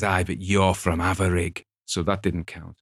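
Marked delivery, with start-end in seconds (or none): 0.0-1.7 Cumbrian local. Retold or imitated. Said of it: "he says".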